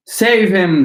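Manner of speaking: high, loud panicked mother; panicked scream. A narrator's reading. Mother screaming for someone to save her drowning son. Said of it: "screamed Missus Gloop".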